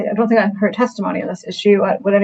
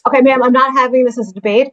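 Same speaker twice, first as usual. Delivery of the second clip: sharp, louder rebuke; firm snap; 4 semitones higher, 4 dB louder than usual. Real, not acted. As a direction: cut the argument off firmly. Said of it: "the judge snaps".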